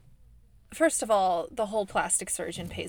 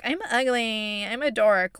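mock self-deprecation; 3 semitones higher, 5 dB louder than usual. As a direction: lightly ham up putting yourself down. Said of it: "not in a way where she's like".

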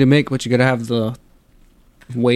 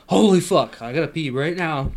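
higher-pitched burst, then dropping back; retold urgent exclamation; 3 semitones higher than usual. Retelling waking up needing to pee, urgent exclamation. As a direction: blurt out a mock-panicked realization. Acts out sudden urge to pee.

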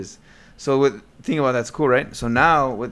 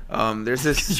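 voice crack; much slower than usual. Real, not acted. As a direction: let the voice crack. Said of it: "Your voice cracked".

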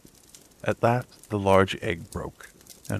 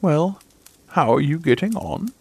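put-on high, louder old duck greeting; old visiting duck; 9 semitones higher, 6 dB louder than usual. A narrator's reading. Old duck visiting the nesting mother, high chatty greeting. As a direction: chirp it as a nosy old neighbour duck.

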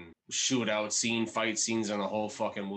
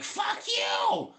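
high-pitched shouted retort; defiant mock shout; 4 dB louder than usual. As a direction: yell it out, hamming up the defiance. Acting out the movie's defiant victim.

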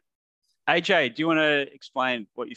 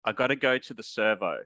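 Australian accent. Shown as a demonstration. Australian models slang phrase for Americans.

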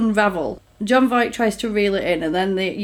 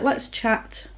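whispered invite; 7 dB quieter than usual. Retold or imitated. J Lo voiced flirting.

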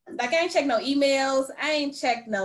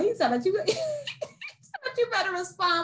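laughing while reading; 12 semitones higher than usual. Real, not acted.

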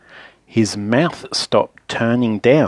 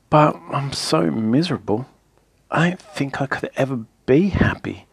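softer, mopey and downcast; miserably; 4 dB quieter than usual. Acted. Mister Miserable tells Mister Happy his woes, softly gloomy. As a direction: sigh it out like a man who expects nothing. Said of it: "he added miserably".

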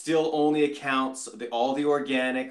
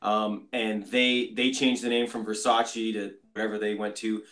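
bad connection. Real, not acted. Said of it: "your sound has completely gone off the radar".

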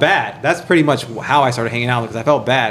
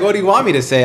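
high, laughing rhetorical question; laughing, repeated retort; 8 semitones higher, much faster than usual. Retold or imitated. Repeating the comeback to his friend, high and laughing. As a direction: laugh through it, pitched up.

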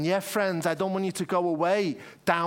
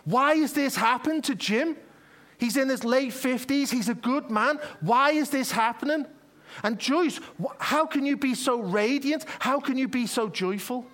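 raging visitor; 4 semitones higher than usual. Acted. Angry visitor at a dying man's bedside, raised indignant voice. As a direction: play the angry friend demanding answers. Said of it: "and he's raging".

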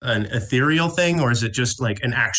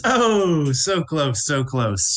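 game character; 4 semitones higher, much slower than usual. Acted. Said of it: "She goes".

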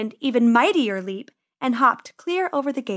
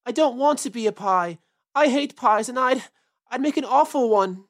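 wailing. Acted. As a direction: wail it like a scared kid. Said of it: "wailed Peter suddenly".

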